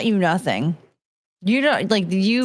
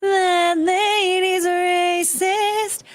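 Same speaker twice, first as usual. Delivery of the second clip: Disney princess; 8 semitones higher, much slower than usual. Pretend. Repeats the Disney princess song.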